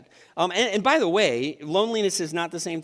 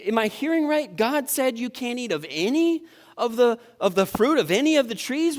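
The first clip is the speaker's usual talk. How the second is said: serpent voice; 6 semitones higher than usual. Acted. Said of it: "let me tell".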